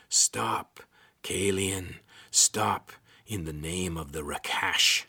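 rasping hiss, slow and loud; a creepy rasping creature voice; cold hissing layered whisper. Acted. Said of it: "The rasping voice crawled up Corvin's spine".

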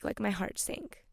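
quiet sinking disappointment; quiet heavy admission. Real, not acted. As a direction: say it softly, letting it drop. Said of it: "not like".

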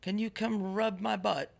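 a lazy, pampered British royal asking for a favour, hammed up; mock British Prince Harry. Prince Harry lazily asking his wife for a rub, mock British accent.

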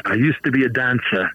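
lightly imitated British accent; a hint of British English on a retold line. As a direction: quote her with a slight British accent. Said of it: "in her, uh, accent".

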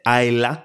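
Isla said slowly as EYE-la, the Y silent; Isla pronounced. Shown as a demonstration. To viewers, showing how Isla is said: slow EYE-la. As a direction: carefully say Isla as EYE-la with no Y sound. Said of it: "γιατί προφέρεται Isla ενώ γράφεται έτσι".

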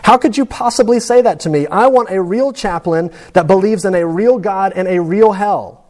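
lightly voiced patient pushing back hard; frustrated old man. Dying man rebuking the chaplain, a touch of anger. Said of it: "he says".

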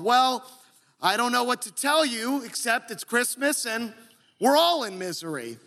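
firm, fed-up declaration; emphatic declaring. Retold or imitated. Preacher quoting Ellen Griswold's fed-up emphatic declaration. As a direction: state it like you've had enough. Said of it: "the emphatic declaring of Ellen Griswold".

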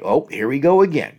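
mildly exasperated; a touch of frustration, quickly acted; frustrated. Coach imitates someone who sees the cycle, mildly frustrated. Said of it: "person who's frustrated".

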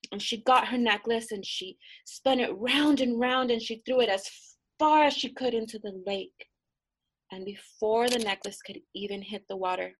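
plain reading voice

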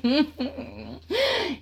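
high closed-mouth giggle; naughty little laugh; chuckle. Real, not acted. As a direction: giggle to yourself at the memory. Laughs between lines of the tale.

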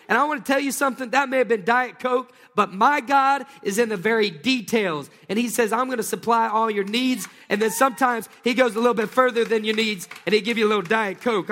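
a preacher carried away by a small blessing; excited preaching. Real, not acted. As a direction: rush it out with real joy. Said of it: "I'm just a little excited".

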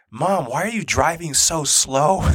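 drawn-out whine from the back seat; Hudson. Retold or imitated. Son asks mom from the back seat, drawn-out complaint. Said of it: "Hudson goes".

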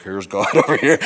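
mock booming God. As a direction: ham up a big voice of God. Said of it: "I'm gonna be like".

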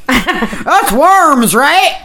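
mock her guess with a giggle; mocking through laughter. Real, not acted. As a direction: parrot her words while laughing. Mocking co-host's line with laughter.

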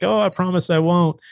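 high, placating reassurance; acted innocent husband; mock-innocent promise. Acted promise to his wife.

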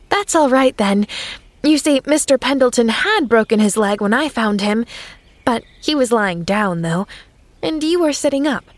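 a hint of a chatty little girl; girl explaining earnestly; lightly voiced eager girl. Pollyanna voiced as child.

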